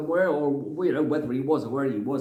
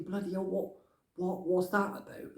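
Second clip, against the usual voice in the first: muttered aside; 2 semitones higher, 8 dB quieter than usual. Retold or imitated. Inner thought, much softer.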